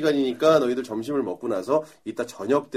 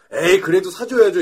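slightly higher, louder pupil voice; mock wheedling protest; 5 semitones higher, 5 dB louder than usual. Students who lost still demanding treats, wheedling. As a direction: coax like a pestering student.

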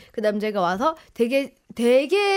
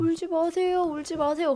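softer, slightly raised soothing voice; 달래기 재연; 3 semitones higher, 4 dB quieter than usual. Retold or imitated. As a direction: gently hush someone who is crying, acted out. 우는 사람을 달래는 말을 재연. (우는 사람을 살살 달래는 흉내)

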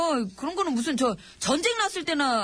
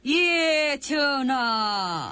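drawn-out rote reply; much slower than usual. Acted.

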